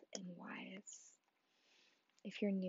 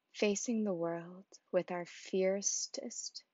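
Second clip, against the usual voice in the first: passage reading; 5 dB louder than usual. Acted. Host reading the opening passage to listeners, measured reading. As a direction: read it out firmly and deliberately, phrase by phrase.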